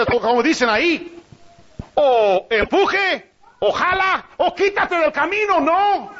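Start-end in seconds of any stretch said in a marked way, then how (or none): 1.9-6.1 quoting a saying. Retold or imitated.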